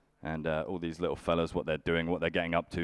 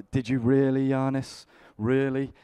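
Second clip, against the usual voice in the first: mock amazement; 7 semitones higher, 4 dB louder than usual. Mocking reply to friend.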